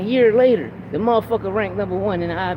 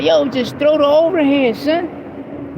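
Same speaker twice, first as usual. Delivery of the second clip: urgent corner call; 6 semitones higher, much slower than usual. Retold or imitated. Repeats instruction to son.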